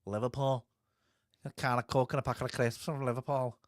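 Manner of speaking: a light, hammed-up Scouse accent on Liverpool. Joking to Sandy about Liverpool, light mock Scouse accent. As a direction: toss off a quick mock Scouse line, a hint of Liverpool. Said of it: "That's the best Scouse accent you're gonna get off me".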